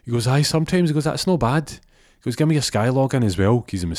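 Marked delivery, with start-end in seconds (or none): 0.3-0.9 much higher, louder answer; nervous lad answers; timid shop lad. Acted. Arjaf answering. 1.0-3.6 loud demand. Acted. Jimmy approves then demands.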